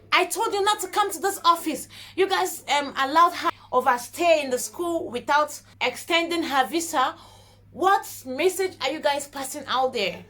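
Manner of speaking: retold angry shout. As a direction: scold her like a stern officer, held back. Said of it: "immigration officer shouted at her".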